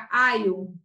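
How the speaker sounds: "aio" said slowly as "ai-o" for alho. Shown as a demonstration. Teacher modelling how alho sounds, i-like glide. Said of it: "a pronúncia é como se fosse um I".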